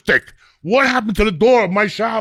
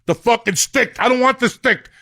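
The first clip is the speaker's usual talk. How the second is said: worked-up rant; 4 semitones higher than usual. Real, not acted. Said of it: "I got emotional about hotels".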